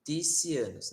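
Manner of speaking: ticianos with s sounds; ticianos, ti-si-a-nos, rejected; wrong version. Shown as a demonstration. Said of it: "Não vai ser".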